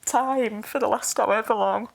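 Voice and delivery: holding back tears while apologising; tearful, crying. Real, not acted. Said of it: "I'm emotional and crying".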